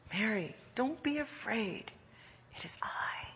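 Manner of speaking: hushed, tender reassurance; compassionate. Acted. Jesus reassuring a frightened Mary, hushed and compassionate. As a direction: soothe gently, fading into a whisper. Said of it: "God's voice of compassion".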